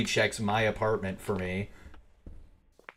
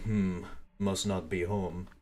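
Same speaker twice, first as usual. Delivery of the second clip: put-on a slow, fumbling try at a Polish accent; half-hearted Polish accent on the killer's line; attempted Polish accent; 2 semitones lower, 5 dB quieter, slower than usual. Streamer voicing the killer in a shaky Polish accent. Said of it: "I don't know how to do a Polish accent".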